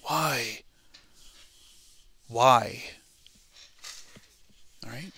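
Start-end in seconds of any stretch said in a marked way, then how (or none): 0.0-2.9 long, drawn-out roar that drops off, then swells; acted-out roar of anguish; roaring cry. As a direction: roar each word out as a stretched cry. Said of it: "they hear a roar saying".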